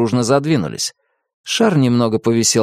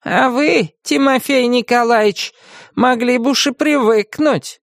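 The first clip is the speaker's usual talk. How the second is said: reproachful; 13 semitones higher than usual. A narrator's reading. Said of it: "укоризненно покачала она головой".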